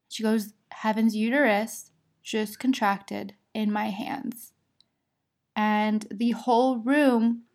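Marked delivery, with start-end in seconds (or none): 0.7-4.5 slow, measured retelling; deliberate repeat. Retold or imitated. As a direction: spell out the news slowly for the doctor. Midwife repeats the news to OB.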